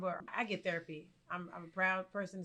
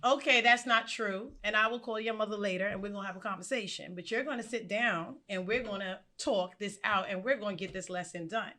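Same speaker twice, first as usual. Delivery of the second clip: firm teacher; 3 dB louder than usual. Retold or imitated. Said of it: "and I'm just like".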